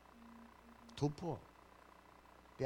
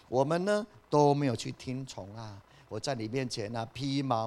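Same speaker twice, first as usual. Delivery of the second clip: louder, pleading confession of sin; Daniel's repentant prayer; 5 dB louder than usual. Acted. Daniel confessing Judah's sins before God, louder and pleading. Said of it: "他在神面前说".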